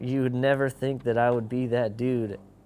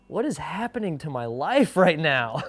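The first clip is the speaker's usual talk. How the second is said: laughing disbelief; 7 semitones higher, 5 dB louder than usual. Retold or imitated. Panicked self-quote, life falling apart.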